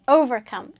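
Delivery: "Overcome" with a firm, clear V; teacher's demo of the V in "Overcome"; strong V sound. Shown as a demonstration. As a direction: model "Overcome" with a distinct V. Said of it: "pronounce it with a strong V sound".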